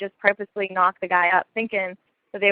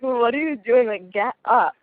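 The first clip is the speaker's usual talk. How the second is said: mock disgusted protest, pitched up and louder at first; 3 semitones higher, 4 dB louder than usual. Sister to her kneeling boyfriend, disgusted. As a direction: retell her put-off reaction. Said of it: "in disgust".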